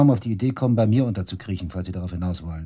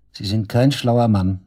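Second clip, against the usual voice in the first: slow scornful jab; 6 dB louder, slower than usual. Acted. Suspect mocking the detective.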